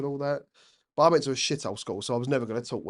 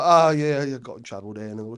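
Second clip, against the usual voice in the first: hard-man geezer; 4 dB louder than usual. Retold or imitated. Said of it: "one of the Cray twins".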